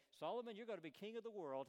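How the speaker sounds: high, loud, grandly exaggerated promise; an overblown king crowning his son; boastful old king. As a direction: puff it up like a bragging monarch. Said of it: "kings oftentimes got exaggerated".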